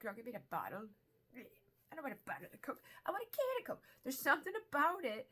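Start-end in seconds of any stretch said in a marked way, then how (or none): 1.9-2.8 higher, lightly acted picky refusal; mock fussy refusal. 3.0-3.8 very high, playful demanding squeak; mock fussy demand. Acts out insisting on a can.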